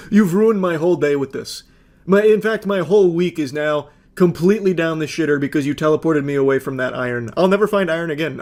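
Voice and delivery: mock whiny boyfriend, through a laugh; lightly hammed-up sulking gamer. Narrator mocks the pouting boyfriend, a lightly voiced whine.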